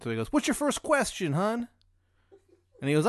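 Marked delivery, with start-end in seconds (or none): 0.3-1.7 very high, slow, loud bad Maryland accent; shitty Maryland accent. Ravens superfan greets the player in a shitty Maryland accent. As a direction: squeal it out in a hammed-up Maryland accent. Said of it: "really shitty Maryland accent".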